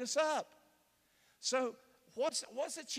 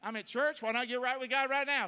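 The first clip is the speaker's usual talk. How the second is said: congregant's voice; 4 semitones higher, 4 dB louder than usual. Pretend.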